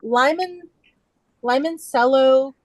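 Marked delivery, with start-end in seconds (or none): 1.4-2.5 "limoncello" said as "lime-n-cello"; "limoncello" opening with a long-i "lime"; lime pun pronunciation. Real, not acted. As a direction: start "limoncello" with the word lime. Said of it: "so it's lime".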